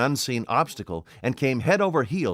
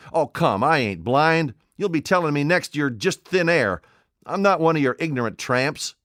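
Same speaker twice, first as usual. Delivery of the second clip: put-on higher, louder, a scoffing old tramp; a tramp refusing to be fooled; indignant tramp; 6 semitones higher, 4 dB louder than usual. A narrator's reading. Tramp Marvel scoffs at the invisible voice, indignant.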